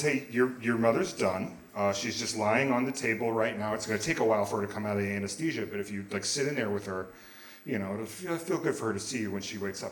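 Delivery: low, softly spoken update; soft-spoken nurse. Retold or imitated. Nurse updating a patient's son, soft-spoken. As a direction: keep it down, low and matter-of-fact.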